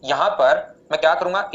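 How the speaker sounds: slowed down, each word spaced out; slow it down so students keep up; slowly. Shown as a demonstration. Math teacher slowing down for his online class. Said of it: "धीरे-धीरे बोल रहा हूं".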